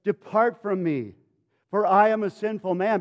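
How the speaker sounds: earnest acted entreaty; begging. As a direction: beg with measured force. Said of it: "He begs him".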